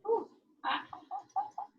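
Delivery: huffing around a hot bite; mouth full of hot food. Real, not acted. Bit into hot dumpling.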